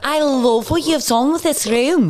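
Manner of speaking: put-on high, gushing Liverpool accent; over-the-top Scouse admirer; Sharon. Fake guest praises the room, hammed-up Scouse. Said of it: "somebody here from Liverpool".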